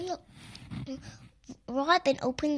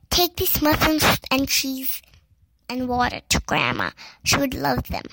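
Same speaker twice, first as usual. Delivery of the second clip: loud mother; 7 dB louder than usual. Acted. Mother voiced in story.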